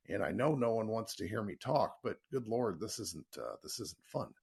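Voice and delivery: hoarse allergy voice; smoker's rasp. Real, not acted. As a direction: talk through a raw throat. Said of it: "I sound like I've smoked four packs of Marlboro Reds".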